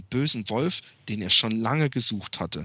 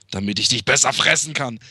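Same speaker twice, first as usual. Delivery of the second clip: wolf voice. Acted. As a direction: answer like the wolf in bed. Wolf's final answer.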